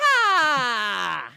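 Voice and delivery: high, loud hammed-up yee-haw; cowboy yell. The speaker greets the crowd in overalls, cowboy whoop. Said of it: "Robert speaks first".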